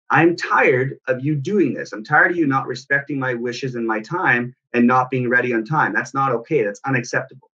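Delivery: stern scolding, no shouting; snapping at child. Retold or imitated. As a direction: snap in controlled frustration, without screaming. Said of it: "that's me snapping".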